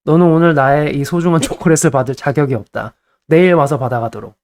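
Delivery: laughing through a mock royal verdict; a teasing, pompous pronouncement, half laughing; playful mock decree. Shown as a demonstration. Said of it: "너무 막 화내지 마시고 이렇게".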